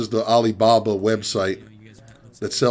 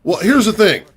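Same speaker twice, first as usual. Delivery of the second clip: customer caller; 2 semitones higher than usual. Retold or imitated. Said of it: "This is my impression".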